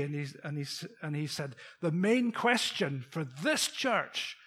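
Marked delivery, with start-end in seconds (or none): 1.8-4.4 slow, deliberate preacher delivery; reenacted preacher. Visiting priest challenging the congregation, slow preacher manner. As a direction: lightly imitate a visiting preacher's weighty delivery. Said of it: "I'll just reenact some of that".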